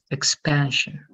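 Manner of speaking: "expansion" stressed on PAN; careful demo of "expansion", weight on PAN; second-syllable stress. Shown as a demonstration. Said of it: "The second syllable".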